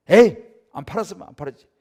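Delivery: loud, huffy mock merchant refusing a sale; mock angry merchant. Merchant turning away a haggling customer, loud and huffy. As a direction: snap it like a vendor fed up with haggling. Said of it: "이렇게 하잖아요".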